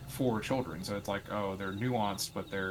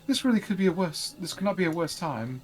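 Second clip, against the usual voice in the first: pompous voice; 8 semitones higher, 8 dB louder than usual. Acted. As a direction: play a haughty noble, grandly. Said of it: "it's the, the pompous voice".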